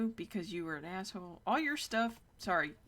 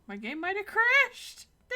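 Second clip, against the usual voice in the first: high panicked alarm, louder; 12 semitones higher, 10 dB louder than usual. Real, not acted. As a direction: yelp as the game crashes. Game crashing.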